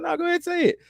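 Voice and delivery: high, teasing insistence; black actor daring the white actor, high and teasing; mock permissive actor. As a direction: dare him in a high voice. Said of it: "He's like".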